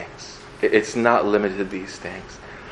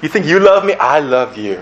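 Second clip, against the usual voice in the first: playful God voice; 4 semitones higher, 4 dB louder than usual. Pretend. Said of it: "And he's like".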